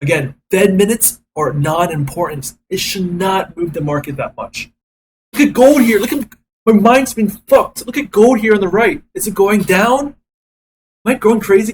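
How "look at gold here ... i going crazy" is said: agitated. Real, not acted. Trader frantic over market move.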